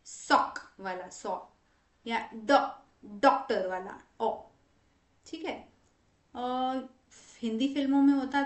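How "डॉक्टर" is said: "डॉक्टर" with an open British o, as in sock; correct open o. Shown as a demonstration. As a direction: make "डॉक्टर" rhyme with sock at the start. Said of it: "सही sound अगर हमें लाना है". ("डॉक्टर" में खुला ऑ)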